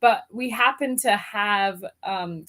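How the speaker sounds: chatty put-on British English; generic British accent. Shown as a demonstration. Guest recalling a birthday party, in generic British accent. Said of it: "we'll start off generic British".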